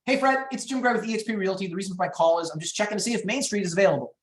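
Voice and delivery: brisk, upbeat phone pitch; fun, high-energy sales call, moving right through it. Shown as a demonstration. Agent cold-calling a home seller, high energy. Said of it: "you hear my tone of voice".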